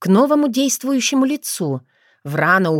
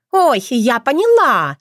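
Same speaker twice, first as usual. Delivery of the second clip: higher, louder, slow fake dawning; feigned realisation; 6 semitones higher, 4 dB louder, slower than usual. A narrator's reading. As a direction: pretend it just clicked. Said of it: "Она сделала вид, что до неё только что дошло".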